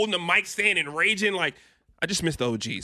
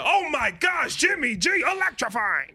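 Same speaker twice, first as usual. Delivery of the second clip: higher, shouted TV hype voice; hype announcer; 4 semitones higher, slower than usual. Retold or imitated. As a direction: oversell it like a broadcast promo. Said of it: "Then it goes to".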